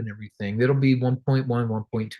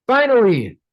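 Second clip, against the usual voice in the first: relieved cheer; 9 semitones higher, 6 dB louder than usual. Retold or imitated. Relief after winning house.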